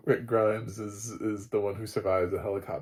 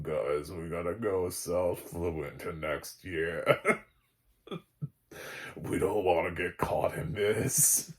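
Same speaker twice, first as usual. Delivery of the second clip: mock zombie voice; 3 semitones lower, slower than usual. Voicing zombies planning migration.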